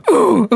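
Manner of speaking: mock grunt from the stall; imitated grunting. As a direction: mimic an overheard moan, breaking into laughter. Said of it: "this is what I heard".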